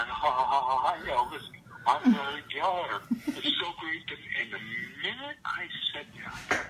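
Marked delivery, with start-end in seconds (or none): 0.0-4.1 louder, nervous stammered greeting with a laugh; stuttering. Retold or imitated. Starstruck teen greets a singer, stammering and louder. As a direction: trip over the hi's like a starstruck teen. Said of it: "And I started to stutter".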